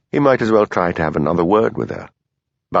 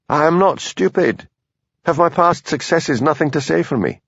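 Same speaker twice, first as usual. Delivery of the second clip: higher, urgent Highland plea; Hamish pleading; 5 semitones higher than usual. Acted. Hamish arguing to keep his job, pleading. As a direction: Hamish begging Daviot for more time, urgent plea.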